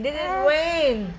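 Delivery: hushed gentle follow-up; soft repeat. Real, not acted. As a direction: ask it again quietly, close. Coaxing child to tell story.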